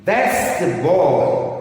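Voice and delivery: put-on slow "That's the boy", leaning on "That's"; sentence stress demo. Shown as a demonstration. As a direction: stretch it out to model the stressed words. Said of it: "where you have to stress".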